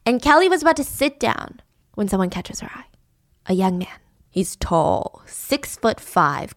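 breathless storyteller whisper; hushed suspense. Acted. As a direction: whisper the reveal. Dramatic reveal of crush.

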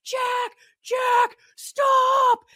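high, loud retold scream; screaming a child's name. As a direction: yell it like a panicked mom calling her son. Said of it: "she's screaming".

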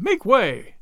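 the crowd repeating its call to clear the way; second cry. A narrator's reading. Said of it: "cried the men all about him".

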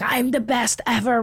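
retold scream, stretched out; mock scream. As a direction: mimic a ranting woman without really yelling. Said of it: "screaming to herself".

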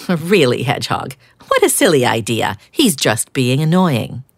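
grumpy duck scoffing at his friend; complaining duck. Acted. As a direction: brush off the silly idea.

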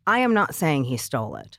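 am pressed firmly; emphatic denial, stress on am. Real, not acted. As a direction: lean on the word am to insist. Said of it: "let me make this very clear".

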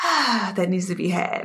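emotional. Real, not acted. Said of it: "I feel like I might get emotional".

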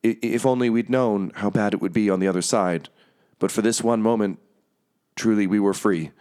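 slightly glitching voice with a stuttered start; lightly voiced glitchy speaker. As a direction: stumble on the first word like a glitch, then speak on. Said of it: "the sort of glitching voice say".

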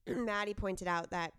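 rough, hungover voice; tired hungover croak. Real, not acted. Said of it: "Sorry for my voice, sisters. I'm hungover".

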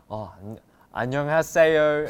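put-on 안녕하세요 with a broad Australian accent. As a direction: say 안녕하세요 like an Aussie tourist. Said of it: "in an Australian accent".

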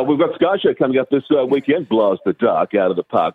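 put-on a touch of old-school station promo read; lightly voiced classic radio announcer. Shown as a demonstration. Veteran newsreader asked for classic lines, light promo read. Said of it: "just some classic lines".

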